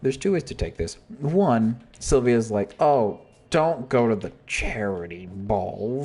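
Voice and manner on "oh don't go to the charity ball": slow, sneering put-down; slow mock-snide warning; snide Sylvia. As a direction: say it like she thinks you're awful. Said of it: "'cause you're awful".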